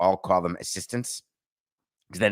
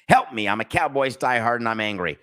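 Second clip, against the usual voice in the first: mock desperate fan; 4 dB louder than usual. Host reading a Cowboys fan's note, mock pleading. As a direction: plead like a heartbroken diehard. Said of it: "I put that in".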